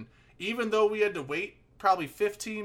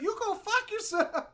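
high, slow, spat-out impression; mock furious caller; 14 semitones higher than usual. Friend imitates the rider cursing out the driver, high and slow. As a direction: drag out each word like she's fed up. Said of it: "She's like".

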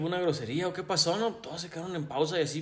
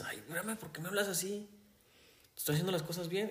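meek mock protest; 2 semitones higher, 8 dB quieter than usual.

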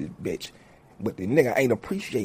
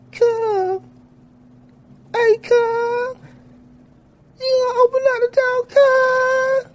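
put-on very high, pleading little-kid voice; whiny kid cousin; 5 dB louder, slower than usual. Little cousin begging to chill in his room, squeaky high kid voice.

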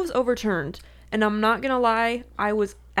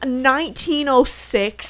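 incredulous; 5 semitones higher, 5 dB louder, slower than usual. Real, not acted. Disbelief at date of bombing.

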